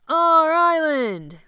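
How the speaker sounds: loud, high, slow triumphant cry; cheering. A narrator's reading. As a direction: shout it to the rafters.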